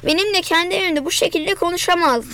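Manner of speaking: ordinary delivery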